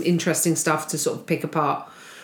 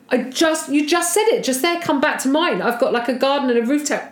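much higher, fast insistent comeback; heated retort; 6 semitones higher than usual. Retold or imitated. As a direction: push back hard on him. Speaker retorts in heated argument.

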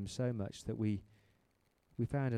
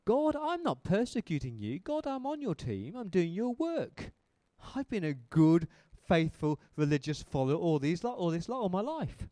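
protesting plea; 4 semitones higher than usual. Retold or imitated. Protesting to God.

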